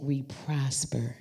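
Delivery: hushed closing whisper. Real, not acted. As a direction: let it fall to a whisper.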